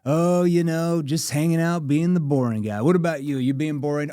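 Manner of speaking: playful banter with prospect. Shown as a demonstration. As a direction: tease them lightly. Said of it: "I have a playful tone".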